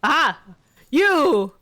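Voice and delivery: high, loud cries broken by laughter; laughing despair. Real, not acted. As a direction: wail at the monster through laughter. Monster leaves, laughing despair.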